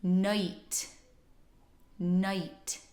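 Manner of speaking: "night" with schwa-start vowel. Shown as a demonstration. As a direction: say night like noight. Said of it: "Now you try".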